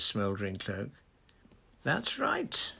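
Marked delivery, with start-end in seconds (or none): 1.8-2.7 lightly pleasant, high-pitched confirmation at normal volume; easy, agreeable lilt, unforced. A narrator's reading. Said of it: "said Dumbledore pleasantly".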